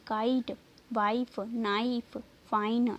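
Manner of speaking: काइट, वाइफ, नाइफ, फाइन slowly, each with "eye"; long i demo. Shown as a demonstration. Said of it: "आई की". (काइट, वाइफ, नाइफ में आइ खींचकर)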